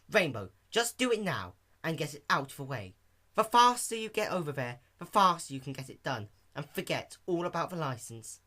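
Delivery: Fluttershy nudging Dash to go now, lightly voiced; encouraging Fluttershy. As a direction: coax your friend along. Fluttershy cheers her up.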